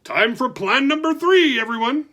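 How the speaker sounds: loud high call to the worms; shouting. Acted. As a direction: shout it out to everyone. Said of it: "Slip shouted".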